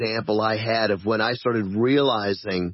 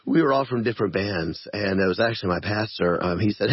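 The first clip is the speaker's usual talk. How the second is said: ordinary talk, nothing marked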